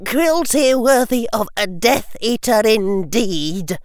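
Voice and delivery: put-on high, pointed old lady voice; sharp disapproving grandmother; stern old witch. A narrator's reading. Augusta's cutting remark.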